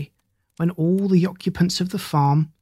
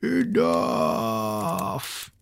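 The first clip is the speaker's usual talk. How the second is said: blaring shout; 6 semitones lower, 5 dB quieter than usual. Acted. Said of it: "suddenly blared".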